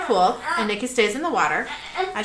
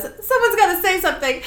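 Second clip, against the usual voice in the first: high-pitched but contained alarm; anxious plea at normal volume; uneasy urging; 8 semitones higher than usual. Acted. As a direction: nervously prompt the others to speak up. Sully urging, first milder take.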